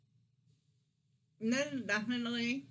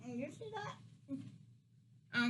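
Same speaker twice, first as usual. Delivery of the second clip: slow, breaking into laughter; laughing; 4 semitones higher, 6 dB quieter, much slower than usual. Real, not acted. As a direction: laugh through the question. Points out corn, then laughs.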